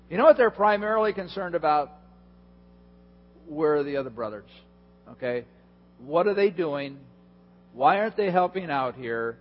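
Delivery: fast, grumbling about fairness; mock the kids keeping score; lightly voiced complaining kids. Preacher lightly voicing his kids grumbling about chores, a touch whiny.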